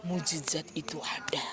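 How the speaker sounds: soft, breathy reassurance; whispered encouragement. Retold or imitated. A mother encourages her dying friend, whispering. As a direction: whisper hope to a sick friend.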